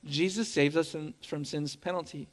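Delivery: quiet emphasis. Real, not acted. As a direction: drop it low so it lands. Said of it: "First of all".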